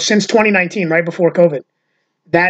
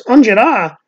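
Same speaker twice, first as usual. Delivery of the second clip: put-on higher questioning echo in Italian American accent; friend's echo; 4 semitones higher, 3 dB louder, slower than usual. Comedian's friend repeats the word, Italian American accent. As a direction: query "Angela" back in a mock Italian American accent. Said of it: "his friend goes".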